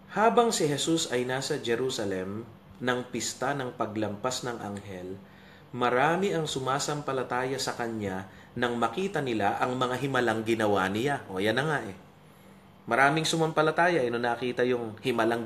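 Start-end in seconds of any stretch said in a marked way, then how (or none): 0.1-11.2 measured, formal Bible reading; solemn public reading, phrase by phrase; scripture reading. Acted. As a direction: read the verse out deliberately to the congregation. Reads Bible passage aloud.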